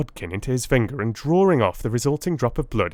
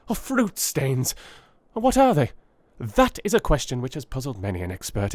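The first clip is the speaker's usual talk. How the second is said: eager Holmes. Acted. Holmes urging Watson to see the test's value, excited. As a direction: press the discovery on him excitedly.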